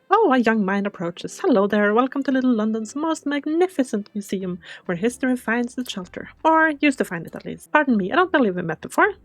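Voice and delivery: a lightly voiced proper gentleman curator; museum curator. Curator welcoming a stranger to his museum, lightly put-on gentleman voice. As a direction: greet the visitor with polite formality.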